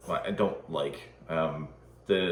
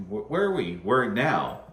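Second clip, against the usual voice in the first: Spaceballs quote; 4 semitones higher, 5 dB louder than usual. Retold or imitated. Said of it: "that scene from Spaceballs".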